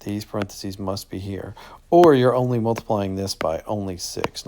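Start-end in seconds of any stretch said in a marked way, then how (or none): 0.0-1.5 hushed, insistent whisper; emphatic whisper. Real, not acted. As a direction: whisper it like a secret rule. Teacher stressing rule.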